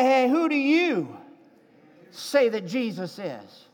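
rally the room, quickly; fast eager urging. Acted. Preacher urging congregation to ask neighbors, fast and eager.

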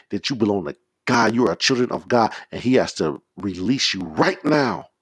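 rapid, driving preacher's charge; urgent preaching. Real, not acted. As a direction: drive each command straight into the next.

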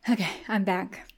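mouth full. Real, not acted. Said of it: "Can you hear me crunching?".

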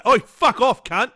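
high, loud pretend outburst; sudden imagined angry yell; mock snapping. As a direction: act out losing it at a customer. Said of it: "I'd snap".

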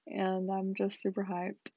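says hyped with zero energy; flat, unexcited. Real, not acted. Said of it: "it does not sound like I'm hyped".

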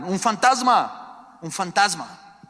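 loud, slow, high terrified cry of ghost; frightened cry. A narrator's reading. Disciples in the storm see a figure, terrified shout. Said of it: "Llenos de miedo, gritaron".

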